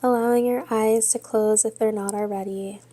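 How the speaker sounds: measured yoga-teacher cueing with long pauses; guided yoga meditation. Real, not acted. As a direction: guide them steadily through breath and pose, leaving space between phrases. Leads yoga and breathing meditation.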